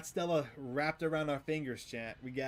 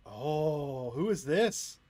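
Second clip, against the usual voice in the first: startled; 6 dB louder, much slower than usual. Real, not acted. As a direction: jump at the voice. Startled by a familiar voice.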